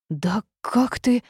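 outraged, slow and loud, high; bursting with indignation; indignant outburst cut short. A narrator's reading. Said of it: "начала я возмущённо".

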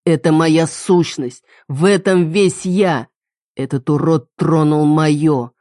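put-on a possessive man roaring at his girlfriend; angry rant. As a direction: hammer each claim slowly. Enraged killer rants at her.

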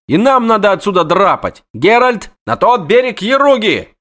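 high, fast, panicky chatter; jittery poet begging his friend; frantic poet. Acted. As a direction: babble in a panic to flee. Voiced poet character.

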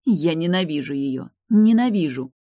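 hatred. Acted. Tilda furious at the bond.

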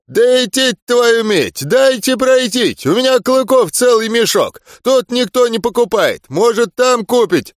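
put-on high, slurred drunk voice; drunken slur. A narrator's reading. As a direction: slur it like a tipsy peasant. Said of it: "заплетающимся голосом доказывал".

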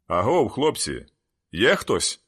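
loud, slow, hoarse calling into the dark; a hoarse stranger calling into the train car. A narrator's reading. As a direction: call out roughly, drawing it out. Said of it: "хрипкий голос".

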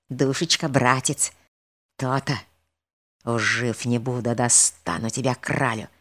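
spy muttering vows from a window; gloating villain whispering. A narrator's reading. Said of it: "губы шептали". (злорадный шёпот)

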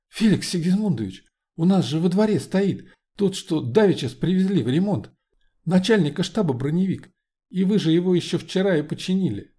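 cooing. Acted. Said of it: "проворковала Молли".

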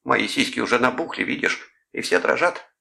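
high mock-swooning lover; feigned amorous moan. A narrator's reading. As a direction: play a breathless lover, obviously faking it. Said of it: "притворно простонал Клод".

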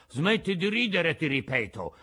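threatening yell. Acted. Geppetto repeating his warning to the mouth, mildly threatening. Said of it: "urlò con voce minacciosa".

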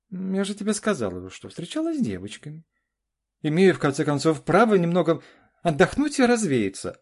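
громко, высоко, с вызовом; огрызнись мужу, защищаясь; раздражённая жена. Acted. Жена ругается с мужем. (жена отбивается от упрёков мужа, громко и с вызовом)

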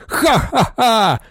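high, slow demonic cackle; demonic laugh. Acted. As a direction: burst into a villain's laugh. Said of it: "вибухнув демонічним сміхом".

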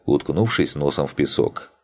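ordinary delivery

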